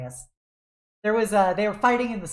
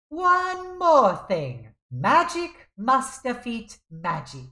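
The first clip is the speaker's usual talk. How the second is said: slow, higher Chinese accent as Uncle from the cartoon; Uncle impression, Chinese accent; 3 semitones higher, slower than usual. Fan quoting Uncle from Jackie Chan Adventures, Chinese accent. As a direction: quote Uncle's catchphrases in a put-on Chinese accent. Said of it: "my Chinese accent here".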